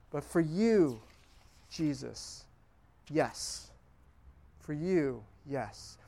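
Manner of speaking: soft, slow, fading yes; whispered yes. Shown as a demonstration. Preacher modelling a yes to Jesus, barely above a breath. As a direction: let the yes fall away gently.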